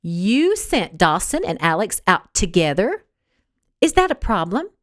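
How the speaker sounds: mild indignant disbelief; barely held rage, rising at the end; understated fury at the news; enraged. Acted. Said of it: "a look of pure rage".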